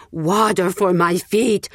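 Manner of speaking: slow croaking plea for water; croaking beggar. Acted. Old beggar calling at the village gates, croaking. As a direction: drag the words out like a parched beggar. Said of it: "he croaked".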